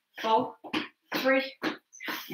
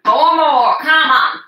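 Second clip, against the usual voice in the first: loud encouragement; 6 dB louder than usual. Real, not acted. Coach pushing class through reps.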